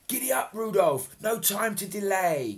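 loud high giddy-up call; loud cry. Acted. Santa calls to Rudolph, loud rousing cry. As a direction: urge the reindeer on with gusto. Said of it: "cried Father Christmas".

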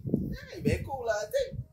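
high-pitched inner voice; telling himself. Retold or imitated. Retelling what he told himself about the place, high-pitched self-quote. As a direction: put your own thought in a high voice. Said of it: "So, I just tell myself".

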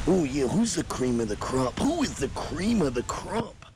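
Macho Man voice. Acted.

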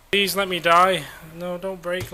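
hammed-up plea to be run over; mock desperate plea. Begging cars to hit him.

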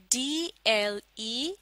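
each letter stretched out very slowly; teacher spelling C-A-N very slowly. Shown as a demonstration. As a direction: sound out C-A-N for the class to repeat. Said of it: "आप भी मेरे साथ पढ़िए".

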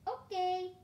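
high, loud, drawn-out call; magpie's loud, high acknowledgement. A narrator's reading. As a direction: sing it out across a distance. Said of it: "calls the magpie".

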